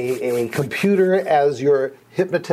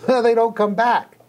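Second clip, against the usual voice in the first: laughing; 7 semitones higher than usual. Retold or imitated. Retold client quote, laughing.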